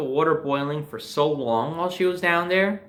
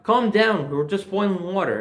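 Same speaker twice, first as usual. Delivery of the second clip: mother calming; 5 semitones higher than usual. Retold or imitated. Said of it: "she's like".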